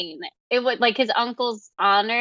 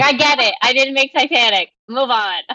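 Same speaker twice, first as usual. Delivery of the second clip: louder, fed-up voice of the director; mock annoyed director; 2 semitones higher, 6 dB louder than usual. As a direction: huff it out like a director sick of the comparison. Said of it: "He's like".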